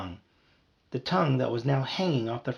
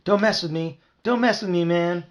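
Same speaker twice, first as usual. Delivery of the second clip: tough threat; 6 semitones higher, 4 dB louder than usual. Acted. Marv threatening.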